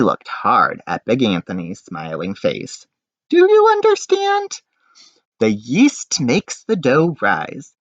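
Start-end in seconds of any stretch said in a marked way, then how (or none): 3.3-4.6 much higher, louder, demanding; stern baker. Acted. Baker checking Big Anthony understood, high and demanding. 5.4-7.7 slow explanation. Acted. Baker explains slowly.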